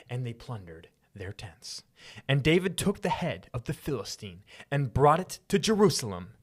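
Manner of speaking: hushed then swelling scripture reading; dramatic narrator voice. Acted. Reading the battle story aloud, in a dramatic narrator voice. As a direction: tell it like an ancient war epic. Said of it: "turn off your narrator voice now".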